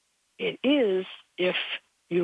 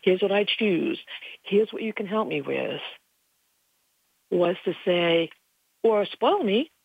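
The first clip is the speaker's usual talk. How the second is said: raised, pleading prayer to heaven; retold prayer; 3 semitones higher than usual. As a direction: pray it lightly, asking to be spoiled. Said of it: "after I said".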